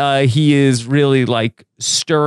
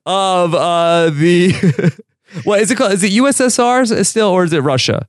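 talk show host; 3 semitones higher than usual. Pretend. Mock talk show host intro.

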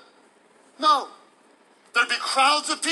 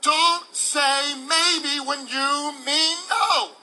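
preaching shout; 4 semitones higher, slower than usual. Real, not acted. Preacher driving home the point.

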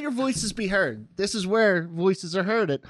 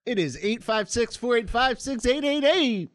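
game show host voice; slower than usual. Pretend. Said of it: "trying my game show host voice there".

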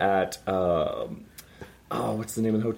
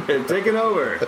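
squeaky laughing; 6 semitones higher than usual. Real, not acted. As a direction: laugh through the words. Laughing takeover joke.

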